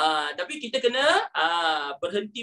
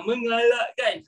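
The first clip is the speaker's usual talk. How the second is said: nasal reading. Pretend. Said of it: "jadi dia sengau sikit kat situ".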